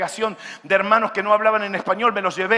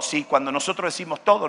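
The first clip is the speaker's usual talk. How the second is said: ordinary talk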